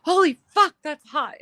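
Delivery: yelp of pain. Retold or imitated. Kyle burns his thumb on the lighter, high loud yelp. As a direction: blurt it out in a high, loud shock. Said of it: "and he goes".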